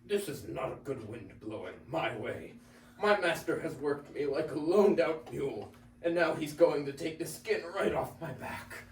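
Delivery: lightly voiced donkey, uneasy; worried donkey. Donkey grumbling to himself about his master, uneasy.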